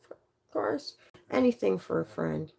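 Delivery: sarcastically chirpy reply; fake sweetness. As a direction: sound eager to help while meaning the opposite. Fake helpful reply to the thief.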